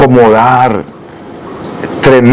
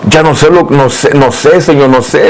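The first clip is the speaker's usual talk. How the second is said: pleading prayer; 2 semitones higher than usual. Retold or imitated. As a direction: cry out to God, lost and desperate. Crying out to God in distress.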